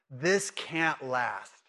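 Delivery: slow, drawn-out cynical aside; cynical thought. Acted. Cynic doubting a great day will hold, slow and wary. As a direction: say it slowly, as a mild cynic would. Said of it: "you're a little cynical and you think".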